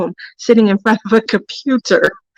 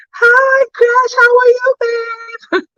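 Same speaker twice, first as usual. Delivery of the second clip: affectionate greeting; 13 semitones higher, slower than usual. Real, not acted. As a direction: break off to coo hello to a friend. Greets a viewer mid-story.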